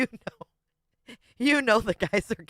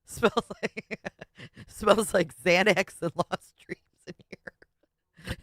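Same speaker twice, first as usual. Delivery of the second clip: laughing read; slower than usual. Real, not acted. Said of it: "reads a joke, laughing".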